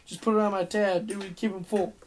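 mocking a lazy, drawling party host; parody of Larry. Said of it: "amazingly good parodies of Larry's own drawing voice".

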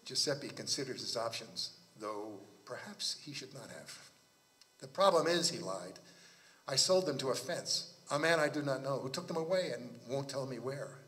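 measured literary read-aloud; story narration. Acted. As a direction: read the tale with deliberate phrasing.

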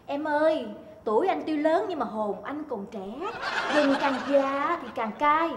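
imitated flirting husband. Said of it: "Nhưng mà gặp gái thì khác nha".

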